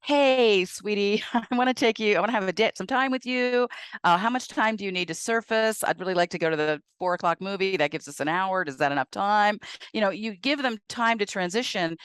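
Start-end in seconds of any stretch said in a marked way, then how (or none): 0.0-9.6 sweet invitation. Pretend. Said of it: "say something like".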